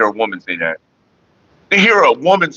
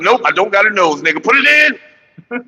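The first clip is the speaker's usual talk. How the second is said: voice of his dick; 6 semitones higher than usual. Retold or imitated. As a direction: coax him, lazy and pushy. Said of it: "my dick was like".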